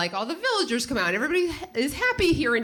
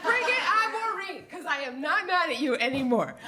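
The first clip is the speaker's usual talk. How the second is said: pumped; 9 semitones higher than usual. Retold or imitated. Retold defiant cheer, laughing.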